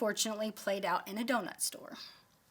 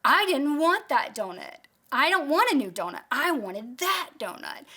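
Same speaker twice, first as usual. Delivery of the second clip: louder, higher indignant outburst; mock calm adult way; 4 semitones higher, 6 dB louder than usual. Wife tells her husband she wanted that donut, indignant and loud. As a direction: insist like a tired mom who's had enough. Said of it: "in a very calm, also adult way".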